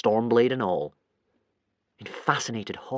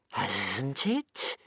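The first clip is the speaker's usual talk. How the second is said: delighted creature; 2 semitones lower, 7 dB quieter than usual. Acted. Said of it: "asked the creature delightedly".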